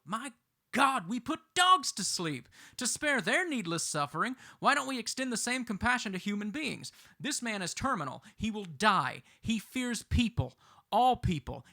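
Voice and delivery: fervent, high-pitched argument to the judge; impassioned plea. Acted. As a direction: plead the case with rising indignation. Impassioned courtroom plea for mercy.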